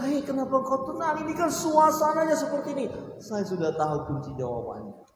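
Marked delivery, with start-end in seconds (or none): 0.1-2.9 higher, questioning voice of a surprised bystander; raised, wondering "why are you calm?"; puzzled onlooker. Retold or imitated. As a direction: ask in disbelief why they are so calm. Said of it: "orang bertanya kepada kita".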